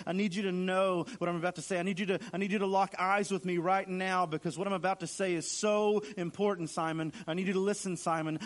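urgent, insistent plea, leaning on each demand; Jesus. Acted. Jesus pulls his disciple back to attention, urgently insisting. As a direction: press him hard to listen, dropping on his name. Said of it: "to get his attention".

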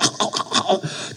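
choking gasps for air, acted out; imitated gasping. Struggling swimmer shows how he choked, mock gasping. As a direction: mimic gulping water and struggling for breath. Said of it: "I would be going".

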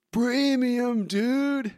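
high, loud cartoon crook; Snake. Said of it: "your best snake voice".

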